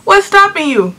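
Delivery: very high, drawn-out challenge; mock her with high-pitched disbelief; exaggerated sassy questioning; retold taunt. Retold taunt to crying girl.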